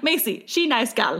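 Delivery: slow, broken-English Russian voice; mock Russian accent. Friend retelling a hungry drive past Macy's, mock Russian accent. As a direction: lightly imitate a bad Russian accent. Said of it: "that's where the voice came from".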